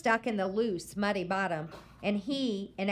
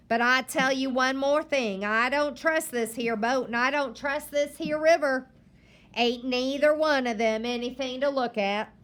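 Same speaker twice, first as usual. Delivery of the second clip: stern grandma; 4 semitones higher, 6 dB louder than usual. Acted. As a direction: warn the boy firmly. Grandma lecturing the boy.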